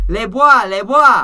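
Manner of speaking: high, loud, triumphant yell. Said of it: "and he yells out".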